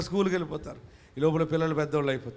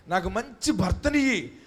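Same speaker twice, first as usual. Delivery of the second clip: mock tearful prayer; 5 semitones higher, 4 dB louder than usual. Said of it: "అని ఏడుస్తా".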